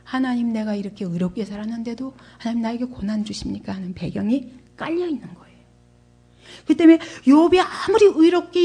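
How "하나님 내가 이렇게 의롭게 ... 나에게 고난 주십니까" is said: subdued retold complaint, softer voice; resentful. Job asks God why he suffers, quietly resentful. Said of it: "불평과 원망으로 바뀝니다".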